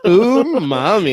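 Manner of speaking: slow, loud drawn-out umami; savoring the word. Pretend. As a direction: stretch umami out like tasting it.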